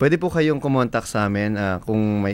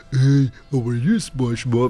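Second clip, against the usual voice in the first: fairly low, rounded cartoon character voice. Showing how character voices differ: Patrick voice, low and round. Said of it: "Medyo bilog na mababa".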